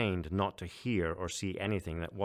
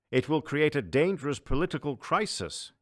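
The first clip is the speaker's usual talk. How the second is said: higher, anxious courtier warning; a hint of a fretful official; worried chancellor; 8 semitones higher, 6 dB louder than usual. Panlax warns.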